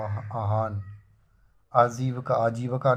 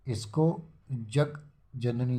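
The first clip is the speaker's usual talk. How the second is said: slow spelling out; much slower than usual. Shown as a demonstration. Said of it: "शब्द मिलाने के बाद".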